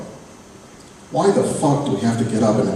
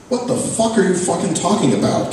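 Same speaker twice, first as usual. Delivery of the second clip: higher, exasperated friend; Kay baffled; 7 semitones higher than usual. Acted. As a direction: demand to know what he means. Kay no longer laughing.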